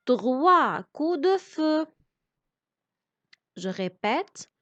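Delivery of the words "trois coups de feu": "trois coups de feu" said slowly, word by word; slow, careful reading. Shown as a demonstration. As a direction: spell it out for pupils. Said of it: "On découpe le mot". (lecture lente de « trois coups de feu »)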